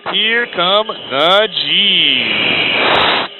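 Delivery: strained, drawn out under G load; straining against the G's; under heavy g force. Real, not acted. Pulling high G in jet.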